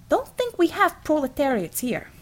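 lightly voiced heavy-set American worker; a hint of a blunt construction man; easygoing American workman, mildly teasing; gruff union man. A narrator's reading. Hensel voiced.

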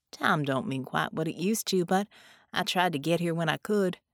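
lightly voiced folksy ghost; gently reassuring, in a light country accent; easygoing ghost. Ghost tells his friend she hurt nobody, lightly voiced reassurance.

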